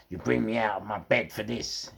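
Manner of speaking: usual speaking voice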